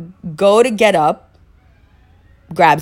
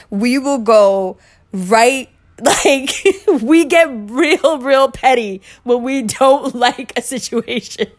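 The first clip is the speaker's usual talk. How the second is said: slow, drawn-out emphasis; 6 semitones higher, slower than usual. Shown as a demonstration. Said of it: "emphatic comic aside".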